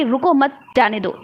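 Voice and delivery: brief pause after "मत", then "जाने दो"; comma pause. Shown as a demonstration. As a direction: split it as "रुको मत", short stop, "जाने दो". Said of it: "थोड़ी सी देर के लिए रुकना होता है". ("मत" के बाद थोड़ा रुककर "जाने दो")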